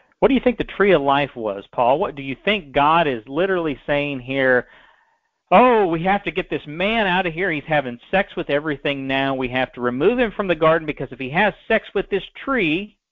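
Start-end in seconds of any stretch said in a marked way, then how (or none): none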